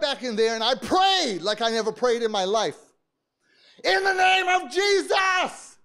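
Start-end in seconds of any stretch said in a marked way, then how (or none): 3.8-5.8 high, slow, loud cry in the name of Jesus; prayer shout. Retold or imitated. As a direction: shout it like a preacher at full force. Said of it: "I'm shouting just like I'm shouting right here".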